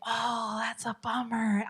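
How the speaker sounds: soft, would-be sympathetic bummer; sarcastic sympathy. Shown as a demonstration. Coach attempts the sympathy line, softly sarcastic. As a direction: try sympathy, let sarcasm leak in. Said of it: "I cannot say bummers without being sarcastic".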